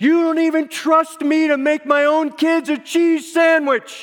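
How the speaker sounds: shrill, high, loud, furious yell. Retelling a kitchen argument, the husband's reply: retelling a husband's yell. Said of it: "he yells back".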